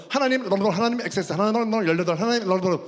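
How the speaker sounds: loud babbled prayer with curses slipped in; fake speaking in tongues. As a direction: imitate fervent tongues to hide swearing. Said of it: "나도 욕을 할 때".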